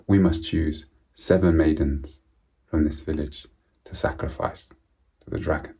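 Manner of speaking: a king mildly grieving, words sinking to a hush; grief and sorrow. Acted. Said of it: "with profound grief and sorrow in his voice".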